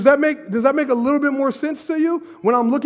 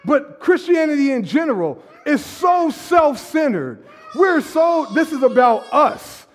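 preaching shout; 5 semitones higher than usual. Real, not acted. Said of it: "I would be screaming too".

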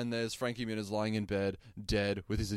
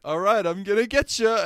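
high, loud menacing tease; hammed-up goblin threat; squeaky monster promise; 9 semitones higher, 8 dB louder than usual. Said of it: "he says".

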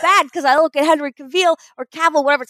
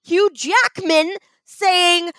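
outraged shout; 5 semitones higher, much slower than usual. Real, not acted. Outraged at Hugh Jackman.

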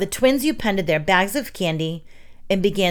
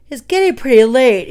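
loud, higher yawned-out words; yawning; 5 semitones higher, 7 dB louder than usual. A narrator's reading. Tired Emilio tells his friends it is late, yawning. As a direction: talk through a big acted yawn. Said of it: "he yawned".

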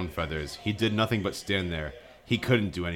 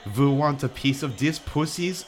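high, louder mock-foreign villainess; Magica's snarl; 7 semitones higher, 4 dB louder than usual. Sorceress challenging the boys, mock snarl in a high voice. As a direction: taunt them in a raised, put-on voice. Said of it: "snarled Magica".

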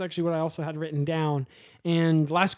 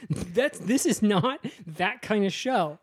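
slow, higher mock-stern objection; appalled objection; 4 semitones higher, slower than usual. Director objecting to Kyle's lewd pitch, appalled. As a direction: spell it out slowly, scandalized.

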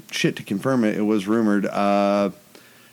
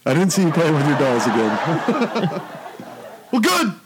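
put-on villain voice; 3 semitones higher than usual. Continuing the Spaceballs villain.

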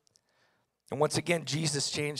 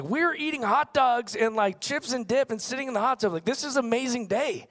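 baffled; 6 semitones higher than usual. Retold or imitated. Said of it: "I was so confused".

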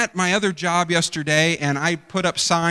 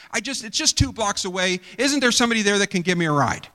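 demanding; 4 semitones higher, faster than usual. Retold or imitated. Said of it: "not nicely asking".

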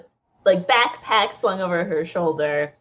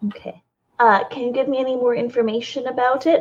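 nervous; 2 semitones higher than usual. Acted. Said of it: "nervous to be back in the city".

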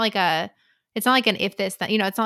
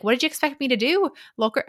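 put-on slightly higher, unintended Scottish accent; attempted Scottish accent; 4 semitones higher than usual. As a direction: fire back a question in makeshift Scottish. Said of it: "I'm doing a Scottish accent".

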